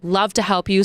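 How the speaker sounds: imitated helpful sympathy, drawn out in the middle; retold sympathy. Embassy staffer consoling stranded caller, imitated sympathy. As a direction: coo with concern as a helper. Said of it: "called the Canadian embassy and they're like".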